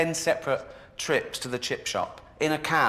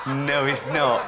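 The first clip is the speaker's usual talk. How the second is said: drawn-out, slow denial; slow, laughing correction; slow mocking no; 4 dB louder, slower than usual. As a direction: spell it out slowly. Repeats denial slowly, laughing.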